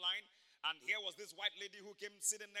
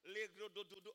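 speaking in tongues; 4 dB quieter than usual. Retold or imitated. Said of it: "I prayed in the Holy Ghost".

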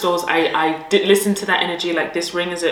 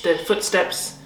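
ordinary talk, nothing marked

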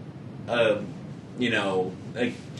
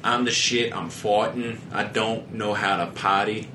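Ted teddy bear voice. Retold or imitated. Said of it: "sounded like the teddy bear from Ted".

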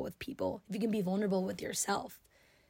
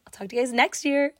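cheesy; 5 semitones higher, 8 dB louder than usual. Real, not acted. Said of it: "I know that was so cheesy".

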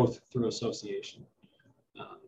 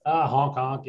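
goose honk; 4 semitones higher, 7 dB louder, slower than usual. Pretend. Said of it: "And is it a honk?".

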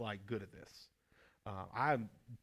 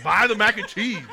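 laughing; 8 semitones higher, 15 dB louder than usual. Real, not acted. Laughing at wife's story.

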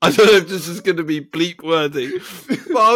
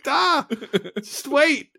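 pleading, higher-pitched harried scribe; flustered note-taker; 3 semitones higher than usual. Pretend. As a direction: pretend you can't keep up with the dictation. Acts out frantic scribe taking notes.

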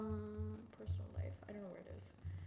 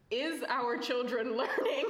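laughing; 2 semitones higher, 4 dB louder, slower than usual. Retold or imitated. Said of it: "reading Bushisms".

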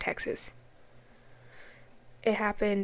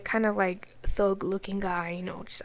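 whisper; 7 dB quieter than usual. Real, not acted. Whispering a judgmental description.

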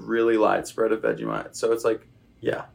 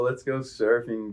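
put-on "let's go surfing" drawled a bit slower in a California surfer accent; slower than usual. The interviewee repeats the line in a California bro accent. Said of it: "Californian guy".

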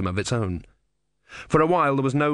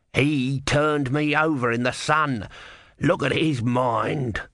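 urgent tortoise voice; 3 semitones higher, slower than usual. Acted. Tortoise insists.

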